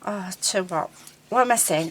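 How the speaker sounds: normal talking voice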